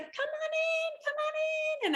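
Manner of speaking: put-on high, soft, lightly accented shop man's welcome; a hint of a Spanish shopkeeper's accent, inviting; mild Spanish accent, coaxing her in. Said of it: "with his nice accent".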